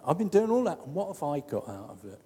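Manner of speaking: sulky complaint trailing away; lightly voiced resentful brother; whiny martyr. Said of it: "that's what he's saying".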